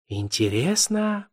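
light, slow and chirpy; chirping. Acted. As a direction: chirp it like a cartoon princess. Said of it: "прощебетала Лена".

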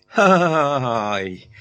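slow, drawn-out jeering laugh; mocking guffaw. A narrator's reading. The crowd jeers at the staggering giant, guffawing. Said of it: "зареготали всусібіч".

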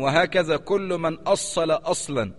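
slow, weighty reading of Ibn al-Qayyim's words; measured scholarly citation; slow quotation. Shown as a demonstration. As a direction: recite the quote slowly and gravely. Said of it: "وقال ابن القيم".

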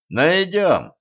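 brushing off doubts with certainty; self-assured; confident. A narrator's reading. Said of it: "уверенно сказал Денис".

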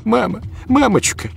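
put-on very high, loud child's scream. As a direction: scream for mommy in horror. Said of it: "кричала Лиза".

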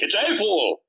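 hammed-up bad German accent; horrible German accent. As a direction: imitate a doctor with a clumsy German accent. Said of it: "horrible German accent".

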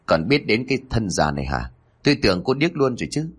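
put-on a touch of a snide, sneering old lady, quickening at the end; lightly voiced mother-in-law, mocking the bride; sharp-tongued mother-in-law. Mother-in-law scolding the new bride, sneering. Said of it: "giọng nói chua ngoa của bà Hội Đồng".

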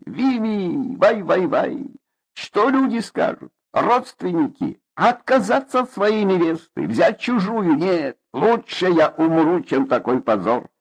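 high wailing lament. Acted. Mother wails in despair at the family's shame. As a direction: rock and keen over the disgrace. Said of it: "причитать".

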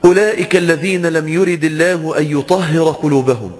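slow, measured chanted recitation of the verse; Quran recitation. Acted. Preacher reciting the verse to the congregation, slow and chanted. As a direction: recite it slowly with reverence.

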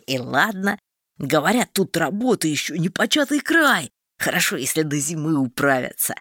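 a hint of a simple wagon driver; lightly voiced peasant.

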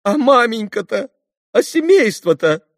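captain showing the bare room; despairing captain. A narrator's reading. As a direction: point at the poverty in despair.

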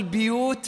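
"بيوت" starting bi-; kasra on the ba. Shown as a demonstration. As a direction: say "بيوت" as biyūt. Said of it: "وبكسرها".

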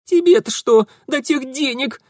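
high, loud, struggling protest; defiant girl. Acted. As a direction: snap back while pinned. (возмущённый девичий крик)

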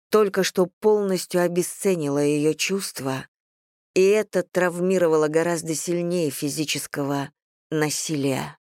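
ordinary delivery, nothing marked

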